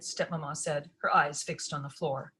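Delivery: ordinary delivery, nothing marked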